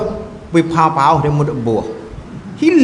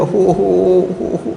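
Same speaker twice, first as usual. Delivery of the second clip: imitated wailing. Storyteller imitating a woman wailing at a grave, mock sobs. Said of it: "Duk teriak".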